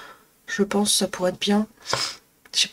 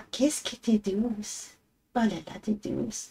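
slow, softer cooing to the cat; soft pet talk; 7 dB quieter, slower than usual. Real, not acted. Owner praising her soft cat in soft baby talk. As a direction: murmur it lovingly to the purring cat. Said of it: "des voix débiles quand on parle à nos animaux".

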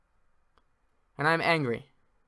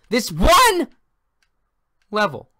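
a frustrated gamer's voice breaks mid-rant; voice cracking high; 6 semitones higher, 8 dB louder, slower than usual. Real, not acted. Gamer repeating his goal, voice cracking high. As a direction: voice cracks up high and loud on one. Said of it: "My voice cracked there".

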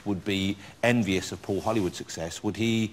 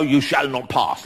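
Gandalf impression; slower than usual. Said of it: "do that voice and go".

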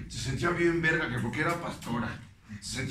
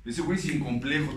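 normal talking voice

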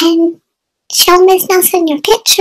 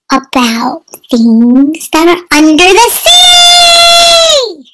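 put-on slow, excited call to kids; slower than usual. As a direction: build it up for the kids. Excited intro to lesson.

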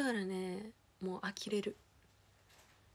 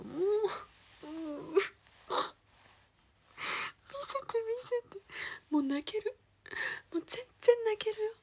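high, crying voice, half in jest; mock sob at how sweet it is; moved near tears, half joking; half-joking tearful; 11 semitones higher, 4 dB louder than usual. Real, not acted.

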